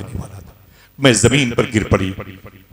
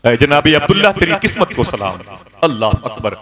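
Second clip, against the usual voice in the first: loud, rising call of praise; fervent call; 2 semitones higher, 4 dB louder than usual. Acted. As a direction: salute him with full voice. Calling out in praise.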